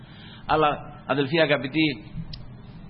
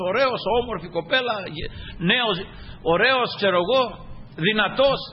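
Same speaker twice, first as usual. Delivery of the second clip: higher-pitched sermon delivery; fervent preaching; 6 semitones higher than usual. Real, not acted. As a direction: preach it with raised, insistent voice. Preaches with raised fervour. (έντονο κήρυγμα με ανεβασμένη φωνή)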